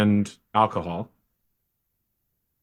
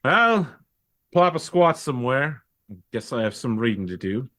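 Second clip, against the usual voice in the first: lightly voiced bogan sergeant. Tired bogan sergeant inviting the player to sit, lightly voiced. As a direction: play the tired bloke, barely in voice. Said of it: "plods into his house and goes".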